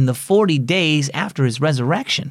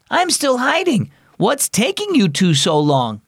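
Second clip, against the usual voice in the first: high impatient call; yelling; 9 semitones higher than usual. Acted. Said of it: "she yelled".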